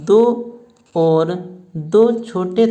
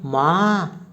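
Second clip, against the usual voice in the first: lightly acted groan of pain; moaning in pain; much slower than usual. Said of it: "जोर से कराह कर बोलती है".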